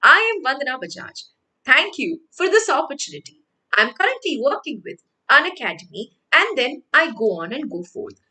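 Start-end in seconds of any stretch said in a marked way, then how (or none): 0.0-6.0 polished, upbeat interview introduction; confident interview pitch. Shown as a demonstration. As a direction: deliver the short pitch like you're greeting a panel.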